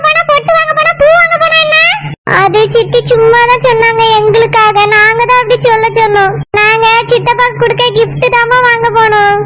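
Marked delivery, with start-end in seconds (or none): 2.4-9.4 put-on child's voice. Child answering scolding mother.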